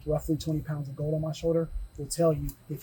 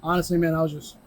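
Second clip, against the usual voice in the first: winded after the match; 6 dB louder than usual. Real, not acted. Champion just after the match.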